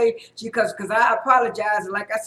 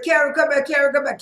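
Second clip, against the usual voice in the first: called out, higher and louder; calling after her; 4 semitones higher, 4 dB louder than usual. Retold or imitated. Someone calling after Karen as she leaves the table, raised voice. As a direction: call her back as she walks away. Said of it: "And somebody said".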